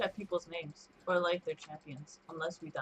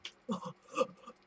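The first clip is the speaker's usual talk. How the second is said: gasp attempt; 4 semitones higher than usual. Shown as a demonstration. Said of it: "I can't make that sound".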